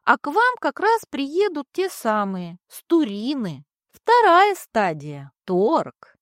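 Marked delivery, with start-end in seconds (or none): 4.0-6.1 smirking. Acted. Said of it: "хмыкнула над ухом облако".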